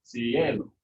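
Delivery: "Cielo" as si-E-lo, weight on the E; stress on second-to-last syllable. Shown as a demonstration. Teacher confirming the rule, stress on second-to-last syllable. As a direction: lean on the E in "Cielo". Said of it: "second to last syllable gets the accent".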